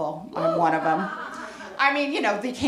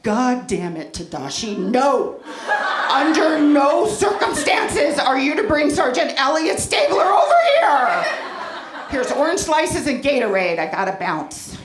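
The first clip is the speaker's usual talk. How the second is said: panicked mom. Retold or imitated. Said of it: "And I'm like".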